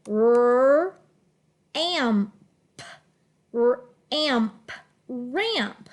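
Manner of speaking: "ramp" sounded out in chunks, r then amp, then blended; teacher blending "ramp" with a nasal glued am; glued-sound reading. Shown as a demonstration. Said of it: "read it with the glued sound".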